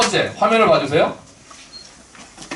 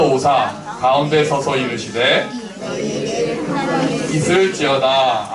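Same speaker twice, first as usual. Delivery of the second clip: slow, lower unison Bible reading; slow scripture reading; 3 semitones lower, slower than usual. Acted. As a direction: read scripture slowly with the congregation.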